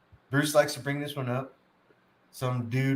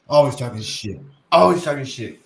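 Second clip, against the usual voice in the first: louder, emphatic catchphrase; louder repeat; 7 dB louder than usual. Retold or imitated. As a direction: punch it harder and louder.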